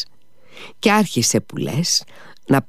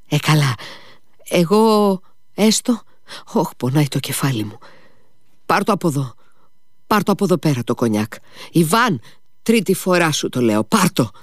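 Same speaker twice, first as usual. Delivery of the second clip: put-on drunk whining old man; 6 semitones higher than usual. Drunk father demands brandy removed.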